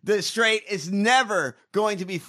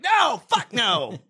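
furious rant; 3 semitones higher, 3 dB louder, slower than usual. Real, not acted. Ranting about Red Sox comeback.

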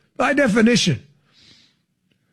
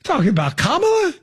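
Jim Mora voice; faster than usual. Retold or imitated. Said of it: "Jim Mora voice".

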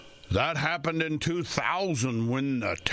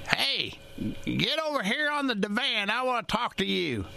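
raised, lightly voiced grandma calling him over; grandmother calling; 10 semitones higher than usual. Grandmother calls grandson to the divan, mild imitation. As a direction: play grandma waving him to the couch. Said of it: "My grandmother used to say to me".

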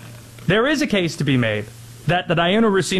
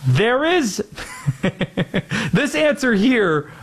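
laughing; 4 semitones higher, slower than usual. Real, not acted. Laughing through the setup.

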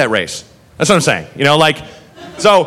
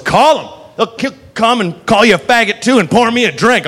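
put-on defiant drunk; 5 semitones higher than usual. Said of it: "And she goes".

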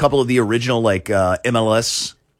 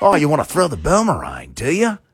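put-on Australian accent; 3 semitones higher than usual. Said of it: "I feel like Australian".

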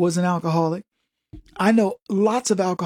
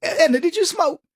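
teasing question; 10 semitones higher than usual. Retold or imitated. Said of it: "asking Edna in skit".

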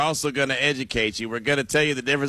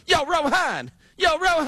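put-on New Jersey accent; 12 semitones higher than usual. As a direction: call out like a guy from Jersey. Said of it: "You sound like a brother".

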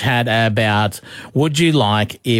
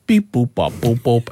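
mock robot beeping; imitated robot beeps; 2 semitones lower than usual. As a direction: retell a kid's robot noises. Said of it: "what would your robot voice be".

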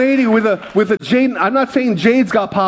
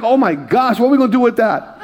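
laughing disbelief; 3 semitones higher than usual. Retold or imitated. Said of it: "I'm like".

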